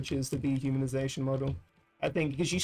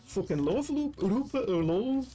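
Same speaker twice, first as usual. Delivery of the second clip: high, hammy fake Irish accent; scuffed Irish accent; 6 semitones higher, slower than usual. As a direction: put on a bad Irish accent, pitched way up. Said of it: "scuffed Irish accent to describe a Brexiteer".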